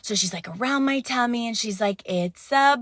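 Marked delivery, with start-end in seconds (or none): 2.1-2.8 put-on very slow, high, loud "It's a boy"; mock announcer. Ultrasound tech announcing to the mother, slow and loud. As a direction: stretch it out like a grand reveal.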